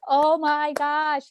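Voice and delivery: high, slow, drawn-out squeal of delight; thrilled gasp. Retold or imitated. Vlogger reliving the VP news, squealing with delight. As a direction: gasp then stretch it out in joy. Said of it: "I was like".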